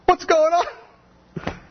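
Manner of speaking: hammed-up bewildered shout; mock yell. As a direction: drag it out as a stunned outcry. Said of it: "Jesus yells at me".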